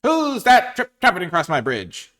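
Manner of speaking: loud, high, slow troll challenge; mean old troll. Acted. Troll challenging a goat on the bridge, loud hammed-up menace. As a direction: boom it out as a storybook troll. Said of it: "said the troll".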